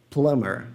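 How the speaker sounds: 'plumber' pronounced 'plummer'; silent B. Shown as a demonstration. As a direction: drop the B in 'plumber'. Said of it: "eu ia colocar assim".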